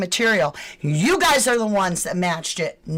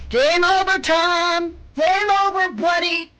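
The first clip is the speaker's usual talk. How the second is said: high, loud mocking taunt; 7 semitones higher, 3 dB louder than usual. Real, not acted. Vlogger to the suspect, loud gloating taunt. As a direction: gloat at him like you've won.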